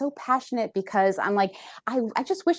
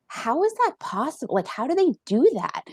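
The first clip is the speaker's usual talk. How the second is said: retold disbelief; 5 semitones higher than usual. Retells past disbelief at self-love.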